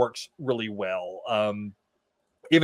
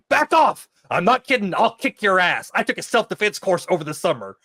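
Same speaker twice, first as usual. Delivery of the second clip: mock tough threat; 5 semitones higher, 4 dB louder than usual. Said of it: "cracks me up hearing Felicity Porter say".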